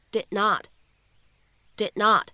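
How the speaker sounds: did not with the d unreleased, did not run together; incomplete plosion. Shown as a demonstration. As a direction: hold the d of did and go straight into not. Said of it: "可以读成". (did not 不完全爆破)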